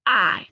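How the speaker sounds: "I" drawn out alone as a long vowel; long I sound demo. Shown as a demonstration. Teacher modelling the long I of the igh team. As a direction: hold the long "I" for the class. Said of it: "I G H is gonna make I".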